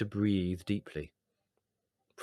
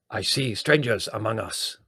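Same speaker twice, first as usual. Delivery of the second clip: put-on Indian accent; 4 dB louder than usual. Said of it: "with such a strong Indian accent".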